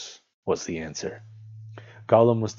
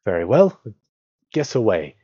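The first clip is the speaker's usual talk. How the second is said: loud, brisk challenge; hobbit's firm reply; 3 semitones higher, 8 dB louder than usual. A narrator's reading. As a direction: answer up boldly. Bilbo answers Gollum's demand.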